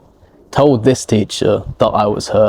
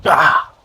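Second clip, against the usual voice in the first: a short sharp ah like pulling a hamstring; imitated pained yelp; 3 semitones higher than usual. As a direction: mimic the yelp of a pulled muscle. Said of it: "like that".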